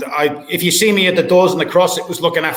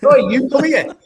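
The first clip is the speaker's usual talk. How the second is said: raised, higher mock call across the door; imitating a bouncer calling someone over; retold call-out; 8 semitones higher, 4 dB louder than usual. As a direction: call him back, higher and a bit louder. Retold calling a guy back.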